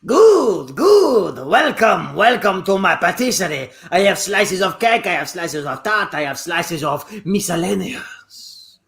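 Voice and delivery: a lightly put-on French shopkeeper accent; a hint of French accent, welcoming customers to his patisserie. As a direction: greet the customer as a hammed-up French baker. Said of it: "an authentic French person behind the counter".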